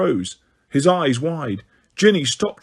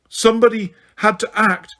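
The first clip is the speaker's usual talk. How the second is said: breathed, high and eager; breathy; 8 semitones higher than usual. A narrator's reading. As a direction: breathe it out with relish. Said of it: "breathed Umbridge".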